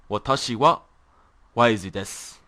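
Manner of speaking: "Watashi wa" said again, then "waizu desu" after a short pause; repeated example. Shown as a demonstration. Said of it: "here's an example".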